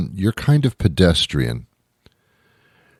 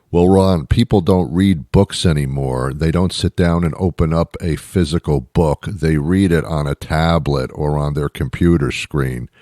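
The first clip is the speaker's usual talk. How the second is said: mock know-it-all; 4 semitones lower than usual. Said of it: "Duh, you archaic little man".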